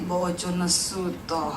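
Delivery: jauh lebih rendah dan pelan; meniru suami. Retold or imitated. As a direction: tiruan ringan suami yang menegur. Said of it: "saya kalau saya itu anu gini". (suami menegur istri, ditiru rendah dan pelan)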